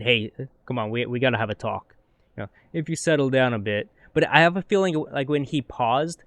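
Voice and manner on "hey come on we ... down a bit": mock serious speech, slightly lowered and softened; serious talking-to. Comic imitated as telling off a kid, mock-serious talking-to. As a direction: imitate someone gently lecturing a kid. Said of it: "like he's telling a, a kid".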